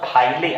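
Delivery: "फाइले" with the final e sounded as a syllable; mispronounced with final e. Shown as a demonstration. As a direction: say "फाइले" in two beats, ending on a clear ले. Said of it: "लेकिन ऐसा नहीं".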